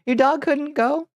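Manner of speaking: high disbelieving question; shocked, rising pitch; surprised. Real, not acted. Shocked by dog left home.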